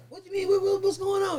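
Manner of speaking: high, stammering shock; alarmed disbelief. Retold or imitated. Hearing partner was caught, high stammering shock. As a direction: stumble over it in rising alarm.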